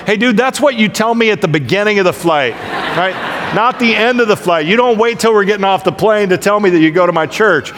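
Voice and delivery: hammed-up complaint to a fellow passenger; mock exasperation. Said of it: "I'm wanting to go like".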